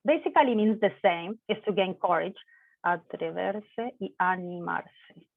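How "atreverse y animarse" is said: slow model. Shown as a demonstration. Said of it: "teacher repeats the pair slowly".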